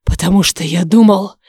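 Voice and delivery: angry growled answer; dragon growl. A narrator's reading. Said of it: "прорычал дракон". (злой рык дракона)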